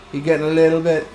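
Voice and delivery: mock-excited holler on the last word; playful shout. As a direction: build to a loud, drawn-out DIRTY. Playful quote, building to a shout.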